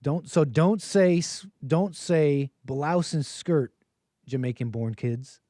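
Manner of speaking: slow, halting try at a Jamaican accent; awkward Jamaican accent read of a viewer's message; Jamaican accent attempt. Shown as a demonstration. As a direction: drag the words out in a tentative Jamaican accent. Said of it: "let me do blouse skirt".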